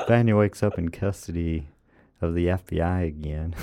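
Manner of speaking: American accent, held back and not too full on; toned-down American accent. Shown as a demonstration. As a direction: ease off into a light American accent. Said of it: "That's a bit overdone".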